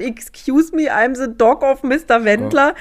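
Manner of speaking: complaining dog on phone. Pretend. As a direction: play the offended dog, lightly.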